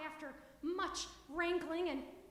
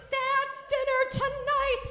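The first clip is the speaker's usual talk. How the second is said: loud, higher, sing-song cry; gleeful mother-in-law; 10 semitones higher, 11 dB louder, slower than usual. Acted. Mother-in-law chasing the duck, singing out loudly. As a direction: crow it out, drawn out and delighted.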